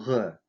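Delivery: "Г" as a voiced fricative far back; "Г" voiced, air flowing through a narrow gap; voiced back-tongue sound. Shown as a demonstration. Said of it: "которой нет в русском языке".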